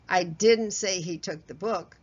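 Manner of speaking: didn't punched and rising; stress on DIDN'T. Shown as a demonstration. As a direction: lean on didn't, deny it. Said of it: "Let me do this for you".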